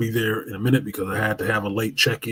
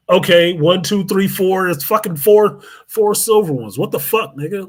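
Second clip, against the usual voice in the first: higher, louder incredulous count; rising exasperation; exasperated counting; 6 semitones higher, 3 dB louder than usual. Retold or imitated. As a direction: count them up getting more annoyed. Counting Toyotas in disbelief.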